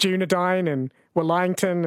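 DUNEDAIN and WELLINGTON with vowels deliberately bent, slowly; slowly mangle "Dunedain" and "Wellington", endings like 'dine' and 'lying'; mock mispronunciation. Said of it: "it will start mispronouncing the English names".

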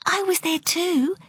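high, small piping voice. A narrator's reading. Girl suddenly speaking up for her friend, piping voice. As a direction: pipe up like a sparrow. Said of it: "piping up suddenly, in a voice like the sparrows".

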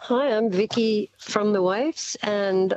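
slow, measured radio intro; radio announcer voice. Pretend. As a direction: announce the song like a DJ. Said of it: "put on your best, uh, radio announcer voice".

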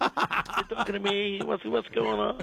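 husky mobster voice, lightly done; Godfather impression. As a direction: play it like a movie mob boss. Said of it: "I sound like the Godfather".

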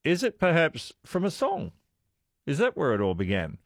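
ordinary talk, nothing marked

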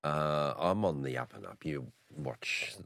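hoarse from a cold; croaky voice. Real, not acted. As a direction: speak through a croaky, sore throat. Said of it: "apologies for the croaky voice".

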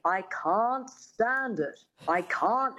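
slow, rounded mid-Atlantic diction; crisp mid-Atlantic correction; mid-Atlantic coach voice. Retold or imitated. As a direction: enunciate like an elocution coach. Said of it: "her dialect coach says".

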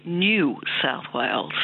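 "New" said with a y-glide; taught pronunciation. Shown as a demonstration. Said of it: "I was taught to say".

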